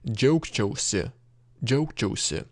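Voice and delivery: džiaugčiausi with final si sounded; full ending. Shown as a demonstration. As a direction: finish džiaugčiausi on a clear si. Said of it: "we would say".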